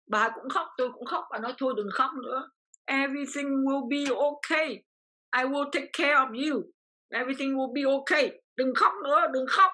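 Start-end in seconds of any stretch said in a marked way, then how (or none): 1.6-9.7 slow, soothing reassurance, higher pitch; gently calm a crying friend; kind comforting. Retold or imitated. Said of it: "Tử tế vô cùng".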